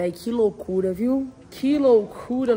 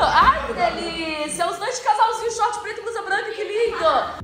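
laughing, higher teasing voice; 6 semitones higher than usual. Real, not acted. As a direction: tease them through laughter.

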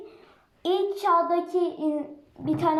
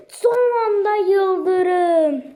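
excited; 3 semitones higher, 5 dB louder, much slower than usual. Real, not acted. Last-second lightning in game.

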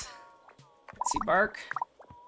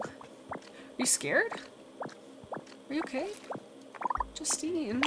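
hushed concern; 4 semitones higher, 10 dB quieter than usual. Real, not acted. Soft worried check on pet.

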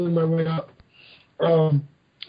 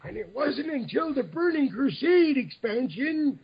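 put-on old person voice; 3 semitones higher than usual. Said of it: "Do I have to do the whole thing in the old".

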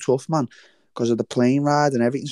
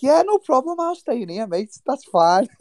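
much higher, bright fake-cheerful yes; mock eager agreement; 12 semitones higher than usual. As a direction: play it like you are delighted to get out of the fight. Retold eager agreement to not fight.

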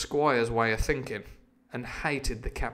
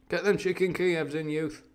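Uncle David; 5 semitones higher than usual. Acted. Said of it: "I've just made him my Uncle David".

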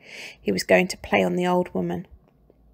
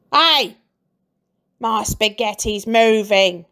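startled cry; 5 dB louder than usual. A narrator's reading. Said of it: "cried Mister Twit".

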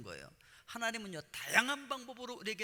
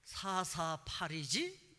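slow taunt, stretching the numbers; unhurried mock jeer, syllable by syllable; mock teasing; much slower than usual. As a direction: imitate kids needling, very drawn out. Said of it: "그러면서 저를 놀리는 거예요".

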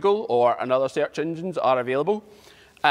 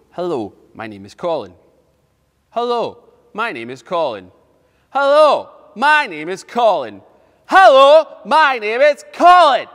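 getting louder; 6 semitones higher, 10 dB louder than usual. Shown as a demonstration. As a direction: repeat it bigger each time, ending at the top of your voice. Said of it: "get louder and louder and louder".

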